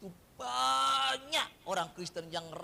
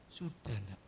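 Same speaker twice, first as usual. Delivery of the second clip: lower, soft fatherly reply; God answering; 9 semitones lower, 4 dB quieter than usual. Retold or imitated. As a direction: answer like a patient father to a child. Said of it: "Saya bilang apa?". (Tuhan menjawab dengan suara rendah dan lembut seperti ayah)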